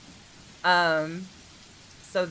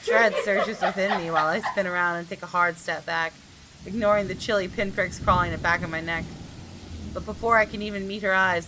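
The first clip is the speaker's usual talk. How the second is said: story narration. A narrator's reading. Reads game text aloud.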